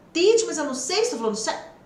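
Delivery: mock an anxious learner blurting out a doubt; worried student. Student objecting to the teacher about pronunciation, worried.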